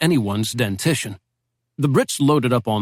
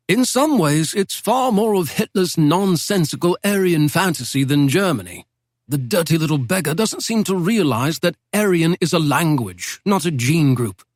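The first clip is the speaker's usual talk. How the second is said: put-on a lightly raised, genteel old don's voice; old British professor; 4 semitones higher than usual. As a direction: speak as a wry Oxford professor reminiscing. Professor lectures on Czechs.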